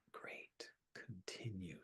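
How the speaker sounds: very soft, near-whispered self-talk; quiet retold thought to oneself; hushed inner thought. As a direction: murmur it inwardly, barely voiced. Retold inner thought during meditation.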